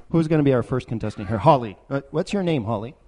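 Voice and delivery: loud, fast game show host; loud carnival barker. Acted. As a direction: hype up the contestant. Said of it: "Wheel of Gifts".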